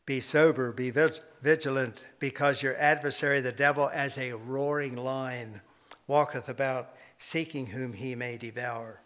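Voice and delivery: measured, declaiming scripture read; a preacher reading the verse aloud. Acted.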